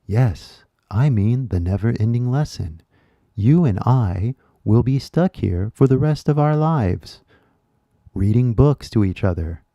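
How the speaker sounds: lightly voiced stiff textbook reply; mock textbook student. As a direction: read the line like a flat, canned student answer. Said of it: "made up fictional English lesson".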